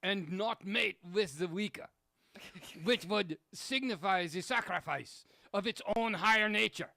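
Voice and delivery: a bad German accent reading Hitler; lightly done German accent. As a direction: read it stiffly in a mock German accent. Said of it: "What accent is that".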